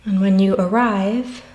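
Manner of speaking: calm guided breathing voice with long pauses; guided meditation. Acted. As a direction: lead listeners gently through each breath, counting with space between numbers.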